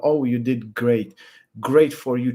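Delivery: drawn-out mocking congratulations; fake pity praise. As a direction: sneer it like hollow sympathy. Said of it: "someone's pity or fake".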